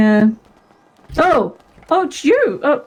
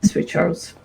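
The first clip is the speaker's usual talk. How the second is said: whisper; 5 semitones lower, 4 dB quieter than usual. Real, not acted. Whispered direction.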